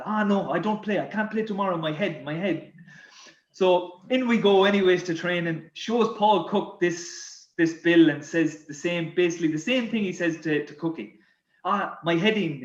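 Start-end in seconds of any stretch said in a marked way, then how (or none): 0.1-2.7 lightly mocked French accent, fretting. French teammate won't be talked round, fretful French accent. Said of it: "this bill with his French accent". 11.7-12.6 lightly imitated French accent, saying "heading" for head; mock French lament on "heading". French teammate complains to Cookie, lamenting French accent. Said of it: "He used to say".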